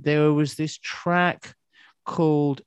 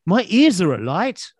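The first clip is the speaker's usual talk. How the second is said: tag; 5 semitones higher, 3 dB louder than usual. Retold or imitated. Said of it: "And I'm thinking".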